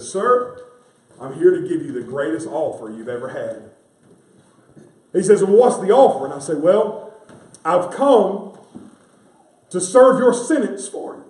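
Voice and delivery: rising fervent storytelling; rising preaching fervour. Real, not acted. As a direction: climb into the story with fire.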